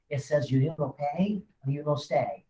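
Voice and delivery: lightly put-on French skunk accent; a hint of a cartoon French lover; Pepe Le Pew voice. Teaching a buyer the deed of trust in a faint Pepe Le Pew French accent. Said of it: "like a Pepe Le Pew voice".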